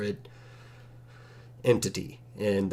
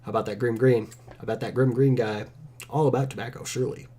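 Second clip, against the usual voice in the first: mock accusation, said as a joke; sarcastic; 3 dB louder than usual. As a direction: tease with a pretend suspicion.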